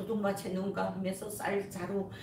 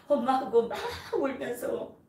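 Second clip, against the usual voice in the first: joyful; 4 semitones higher, 6 dB louder than usual. Real, not acted. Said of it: "너무너무 기뻤습니다".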